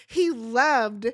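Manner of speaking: whiny, tearful imitation with a real sob in it; mock crying Rhonda. Recapping Rhonda complaining he stopped loving her, mock crying. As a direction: play Rhonda blubbering over the honeymoon. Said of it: "now she's crying".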